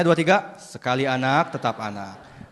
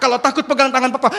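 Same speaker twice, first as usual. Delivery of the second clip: loud, raised-pitch promise; urgent father; 7 semitones higher, 7 dB louder, faster than usual. Acted. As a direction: call it to your dangling son. Father instructs son.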